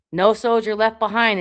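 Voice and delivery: loud, urgent battle cry; mock soldier's rallying yell; retold yell. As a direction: shout it like rallying troops. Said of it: "I kept yelling".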